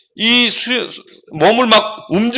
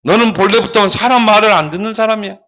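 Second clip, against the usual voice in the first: scolding; 2 semitones higher than usual. Acted. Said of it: "막 책망을 하는 거야".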